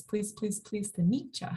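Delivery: "meet" accented as the second-to-last syllable, with a rising end; stress on MEET. Shown as a demonstration. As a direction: lean on "meet" after even, repeated "please". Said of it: "that penultimate syllable".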